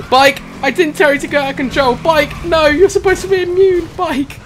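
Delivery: high, loud yells at the bike; exasperated shouting. Real, not acted. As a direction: scold it in exasperation.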